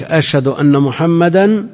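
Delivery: محمدا with a held, doubled mim. Shown as a demonstration. Scholar to students stressing the doubled mim. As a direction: press the mim of محمدا long. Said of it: "مشددة".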